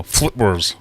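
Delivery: FLIPWERS said as written, flip-wers; misspelling read out. Shown as a demonstration. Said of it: "Which is meant to say flowers".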